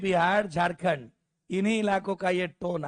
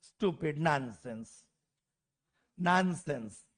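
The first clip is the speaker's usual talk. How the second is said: put-on lower, softer UP-accented scolding; 5 semitones lower, 4 dB quieter, slower than usual. Pantry car man scolding a woman, in UP accent. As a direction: mutter स्टूपिड, नॉनसेंस like a UP pantry man. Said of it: "तो बोलता है".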